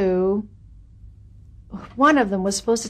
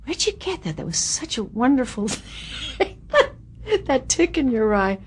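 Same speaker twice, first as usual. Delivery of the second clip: much higher, softer, admiring director voice; Buzz Kulik impressed; 5 semitones higher, 3 dB quieter than usual. Retold or imitated. Director praises her eye twitch, high and softly admiring. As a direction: mimic a delighted director praising. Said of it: "I remember Buzz Kulik saying".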